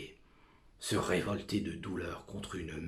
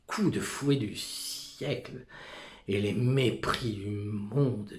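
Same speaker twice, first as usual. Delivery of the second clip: bitter outburst; 5 dB louder than usual. Acted. Soliloquy rising in anger.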